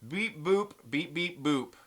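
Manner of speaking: imitated robot beeps and boops; playful spoken bleeps stepping downward; drunk droid beeps. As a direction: beep like a tipsy droid. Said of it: "You sound kind of like a drunk droid".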